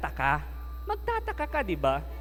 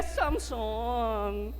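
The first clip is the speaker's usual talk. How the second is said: Delilah coaxing; 5 dB quieter, slower than usual. Acted. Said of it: "nagtanong si Delilah".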